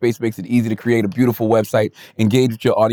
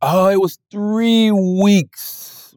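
slow drawn out; 6 semitones higher, much slower than usual. Real, not acted. Drawn-out correction.

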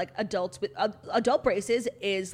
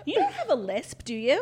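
higher, laughing disbelief; 6 semitones higher, 4 dB louder than usual. Real, not acted. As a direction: laugh while asking.

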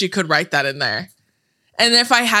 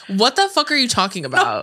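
retold annoyance, pitched a bit higher; annoyed mom; 4 semitones higher than usual. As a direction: imitate a fed-up mother demanding an explanation. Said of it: "my mom gets so annoyed".

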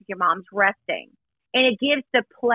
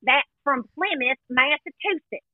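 terrible put-on Southern accent, pitched up; mock Southern accent; 4 semitones higher, slower than usual. Mocking a pageant contestant's fake accent, exaggerated Southern accent. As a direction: imitate a badly faked Southern belle accent. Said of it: "That's how she talks".

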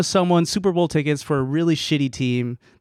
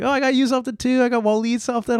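coworker voice; 8 semitones higher, faster than usual. Retold or imitated. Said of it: "And she was like".

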